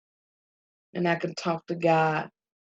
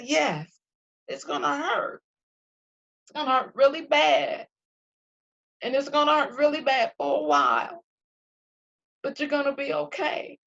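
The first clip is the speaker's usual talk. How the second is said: retold father's answer; 9 semitones higher than usual. Father's blunt answer in story.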